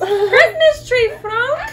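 high, loud, slow call across the house. Real, not acted. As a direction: call out to someone in another room. Calling out to Frank.

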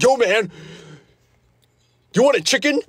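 friend's excited offer. Retold or imitated. Friend turning up with chicken, lightly imitated high greeting. Voicing friend arriving with food.

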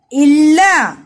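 इल्ला with a held ल, falling at the end; doubled l in इल्ला. Shown as a demonstration. Teacher modelling the doubled लाम in इल्ला for pupils. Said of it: "लाम जबर अलिफ ला".

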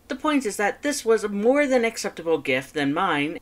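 high, loud, fast boastful skeleton; Papyrus voice. Acted. Papyrus reporting on his date to his brother, high and loud. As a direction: rattle it off proudly, high and loud.

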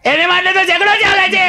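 very high, slow bawling; hammed-up howling kid; crying child. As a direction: wail it out like a toddler. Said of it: "નાનું છોકરું સીડીએથી રડતું રડતું".

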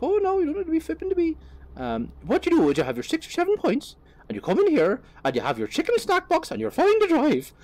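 high, loud over-the-top Donegal guard; broad Irish accent. Retold or imitated. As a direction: reassure like a hammed-up Donegal policeman. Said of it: "probably fairly offensive Irish accent".

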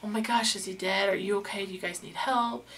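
imitating the concerned way he should have asked; mock concerned. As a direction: play the caring passer-by he wasn't. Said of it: "he didn't say it like".

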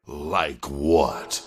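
low-pitched, probing question; suddenly interested. A narrator's reading. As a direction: ask it low, wanting the answer. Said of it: "suddenly interested".

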